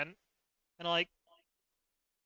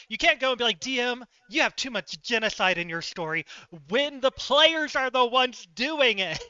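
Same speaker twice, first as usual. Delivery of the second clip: higher and louder, building outrage at the players; indignant rant; 5 semitones higher, 4 dB louder than usual. Retold or imitated. Retelling how she scolded the players for their genocide, indignant. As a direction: call them out, voice climbing.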